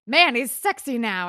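mock hyped voice. Mock voice of TV show.

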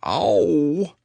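mild cry of strain; stretched bear yelp; pained "ow". A narrator's reading. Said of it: "Pooh only said".

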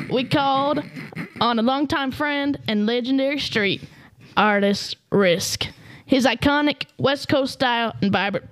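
put-on hick Utah accent. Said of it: "best hick Utah".

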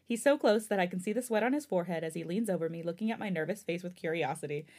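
read-aloud fan fiction narration; story narration. A narrator's reading. Host reading a new chapter to listeners, story narration.

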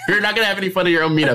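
laughing fast through the words. Real, not acted. Streamer joking to chat about hosting stress, laughing. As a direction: rush it out between giggles.

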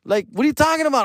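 mock-outraged high comeback; incredulous high retort. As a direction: fire it back high and outraged. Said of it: "I'm like".

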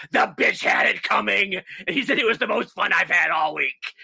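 a hint of a demon speaking through the old man; lightly voiced devil, smug and cruel; possessed voice. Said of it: "he starts talking like this".

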